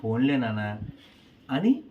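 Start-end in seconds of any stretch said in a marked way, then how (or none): 0.0-0.8 kindly. Retold or imitated. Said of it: "ప్రేమతో".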